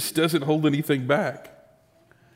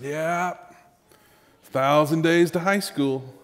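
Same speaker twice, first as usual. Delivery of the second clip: put-on slow, weary old-soul sigh; son sighing; much slower than usual. Young son sighing to dad, slow and weary. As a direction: breathe it out slowly like a tired old man. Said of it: "He took a deep breath and he let it out".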